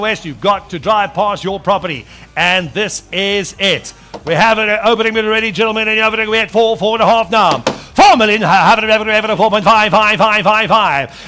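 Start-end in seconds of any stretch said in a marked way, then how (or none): 4.2-11.3 rapid auction chant; auctioneer. Acted. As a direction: rattle off bids like an auctioneer. Auctioneer running the bidding.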